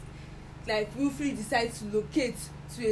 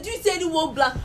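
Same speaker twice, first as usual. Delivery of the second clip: incredulous quote; 6 semitones higher, 6 dB louder than usual. Retold or imitated. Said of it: "I'm just like, the Bible said".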